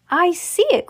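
high, eager exclamation; excited cry. Acted. Mister Wonka spots Charlie's little house, excited cry. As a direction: call it out brightly, pitch jumping. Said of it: "cried Mister Wonka".

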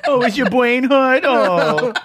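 high, slow mocking baby voice; baby talk. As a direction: coo it like to a toddler.

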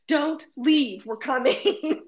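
loud, high desperate plea; breathless plea. Retold or imitated. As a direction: call out to the waiting guide. Pleading with tour guide by phone.

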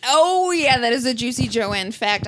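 excited catchphrase. Pretend. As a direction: throw "Oh, yeah" out with a big lift. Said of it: "you have to say".

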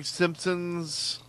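hushed whisper. Acted. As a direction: whisper it like a secret. Aside about making money.

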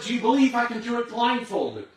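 loud, high call across the falls; yelling to the crowd. Retold or imitated. Tightrope walker shouting to the crowd below, loud and high. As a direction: shout it so thousands can hear. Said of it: "He said".

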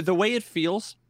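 usual speaking voice

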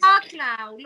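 loud playful swear; mock outrage, loud. Real, not acted. Mock outrage at Laura for speaking English badly. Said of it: "playful outburst".

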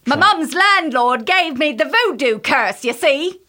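high-pitched, hammed-up British accent; bad British accent. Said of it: "Neither one of us can do accents".

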